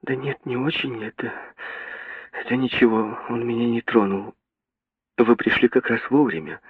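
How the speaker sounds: a barmaid reassures her rescuer in a trembling voice. A narrator's reading. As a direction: hold back tears. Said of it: "сказала дрожащим голосом".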